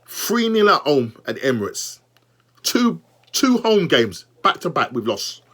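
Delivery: talking through hiccups; hiccuping between words. Real, not acted. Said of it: "Sorry, I've got the hiccups now".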